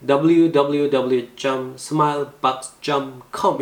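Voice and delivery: web address with Korean "점" slipping in; mistaken jeom for dot. Shown as a demonstration. Teacher mimics learners' unnoticed slip, mistaken "점". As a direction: rattle off the address saying "점" for each dot. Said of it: "이렇게 하는 경우가 많아서".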